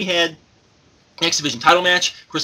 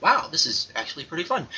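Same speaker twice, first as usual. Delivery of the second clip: flat monotone voice, imitating; True Slayer monotone; 5 dB quieter than usual. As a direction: say it with no inflection at all. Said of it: "in his little monotone voice of".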